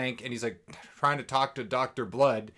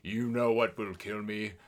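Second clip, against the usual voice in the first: a lightly lowered, slow, hammed-up villain; dramatic deep villain voice; 4 semitones lower, 4 dB quieter, slower than usual. Podcaster mocking the vampire villain, mild hammed-up deep voice. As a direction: ham up the ancient vampire listing his weaknesses. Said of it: "why you're doing that, like, dramatic voice".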